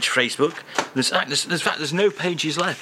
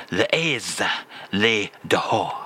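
les aises, les dehors said lower, carefully; French phrase repeated; 6 semitones lower than usual. Shown as a demonstration. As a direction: give les dehors a deliberate French delivery. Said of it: "I shall say that again".

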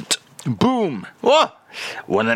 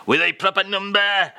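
emphatic echo; 7 semitones higher than usual. Acted. Echoing the phrase with gusto.

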